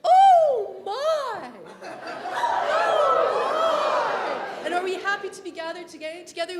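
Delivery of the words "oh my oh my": high, loud laughing oh my; delighted high-pitched oh my. Shown as a demonstration. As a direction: squeal it way up high. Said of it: "while we're up there, let's all say".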